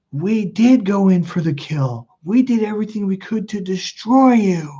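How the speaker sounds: high-pitched, deliberate mother imitation; imitated cruel mom. Mom confessing to her son, cruel and emphatic.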